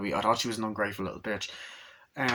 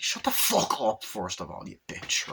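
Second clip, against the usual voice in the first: mock outrage. Viewer telling off the daughter, mock outrage. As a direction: scold the character, hammed-up.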